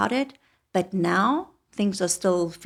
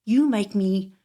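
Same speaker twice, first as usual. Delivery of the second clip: heated retold outburst; 6 dB louder, slower than usual. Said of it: "And I say to him".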